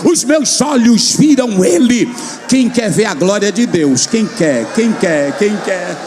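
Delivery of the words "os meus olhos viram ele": Isaiah's cry. Retold or imitated. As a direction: cry out broken like the prophet. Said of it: "tu sai como Isaías". (grito de Isaías, subindo)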